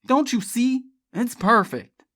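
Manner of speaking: loud, impatient retort; snapped. A narrator's reading. Charlie argues with Elizabeth, snapping. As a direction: snap it out. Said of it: "he snapped".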